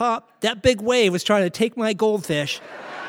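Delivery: put-on high, loud little kid voice.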